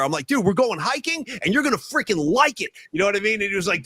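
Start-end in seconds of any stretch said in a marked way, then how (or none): 0.3-2.7 higher-pitched, insistent mock yell; retold yelling. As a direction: order a reluctant friend along, acted out. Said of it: "I was yelling at Rags the whole ride".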